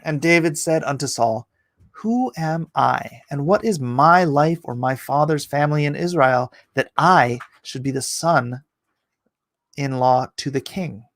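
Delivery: emphatic King James Bible reading; declaimed Old Testament narrative; scripture reading. A narrator's reading. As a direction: read the verse out with measured, weighty stresses. Reads scripture aloud.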